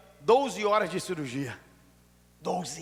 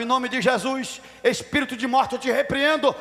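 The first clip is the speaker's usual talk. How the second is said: raised, quick preacher's proclamation; commanding rebuke; 5 semitones higher, 5 dB louder than usual. Retold or imitated. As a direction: proclaim it like a forceful exorcism. Retells rebuking death in vision.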